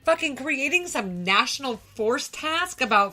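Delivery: worked-up podcast rant; angry rant. Real, not acted. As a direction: vent your outrage at him. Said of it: "She gets so mad".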